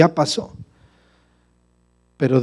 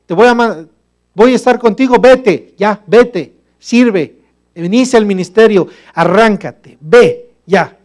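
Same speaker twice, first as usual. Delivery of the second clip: loud, higher impatient urging; God urging Moses; 5 semitones higher, 6 dB louder, slower than usual. Acted. God sending Moses off, loud and insistent. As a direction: push him out the door, go. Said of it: "Dios le dijo".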